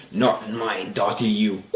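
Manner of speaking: Molly. Retold or imitated. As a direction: draw out the warning as an acted furious mother. Molly defends her daughter in fight.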